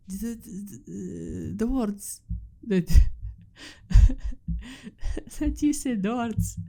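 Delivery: a hint of the fumbling sister; imitating sister. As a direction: mimic the sister's halting reply, pitch up. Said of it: "she was like".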